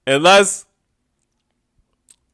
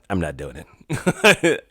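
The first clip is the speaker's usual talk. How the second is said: lower, slow, stubborn put-on voice; a lightly voiced, dragged-out refusal; mock Trump refusal; 8 semitones lower, 5 dB quieter, much slower than usual. Imitating the president refusing the court, low and slow.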